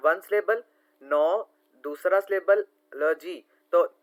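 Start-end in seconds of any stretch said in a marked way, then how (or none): 1.0-1.5 "नो" as a separate, drawn-out beat; syllable by syllable. Shown as a demonstration. Teacher counting syllables for students, "नो" said separately. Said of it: "तोड़ तोड़ के word को पढ़ना". 3.0-3.4 "ल जी" in slow separate beats; syllable by syllable. Shown as a demonstration. Teacher counting syllables for students, "ल जी" said slowly apart. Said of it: "तोड़ तोड़ के वर्ड को पढ़ना".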